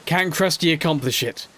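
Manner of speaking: slow, dramatic trailer voice, fading to a whisper; mock movie-trailer narration. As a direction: announce it like an epic trailer.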